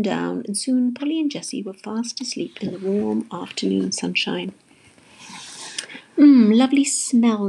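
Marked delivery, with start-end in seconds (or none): 6.2-7.5 slow, drawn-out drowsy delight; dreamy murmur. A narrator's reading. Polly waking to falling petals, drowsy. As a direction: savour it, half asleep. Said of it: "muttered Polly, half asleep".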